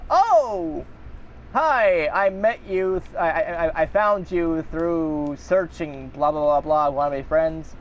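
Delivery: hammy porn bot come-on; flirty bot voice. Retold or imitated.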